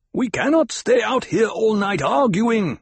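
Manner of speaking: high, urgent shout from above; loud, high-pitched protest; impatient shout. A narrator's reading. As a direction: shout down at the leader to hurry. Voice from rocks protests loudly.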